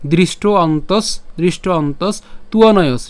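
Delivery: "দৃষ্ট অন্তস" linked in one phrase; measured, connected "দৃষ্ট অন্তস তুয়নয়স" for learners; words joined together. Shown as a demonstration. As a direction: join "দৃষ্ট অন্তস তুয়নয়স" without breaking it up. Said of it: "যদি একসাথে উচ্চারণ করতে পারেন".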